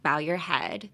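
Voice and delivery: bow rhymes with now in bow your head; bow sounds like ow. Shown as a demonstration. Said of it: "bow means".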